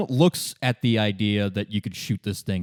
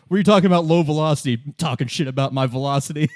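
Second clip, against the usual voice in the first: Kuno outraged; 3 semitones higher, faster than usual. Retold or imitated. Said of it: "Kuno's like".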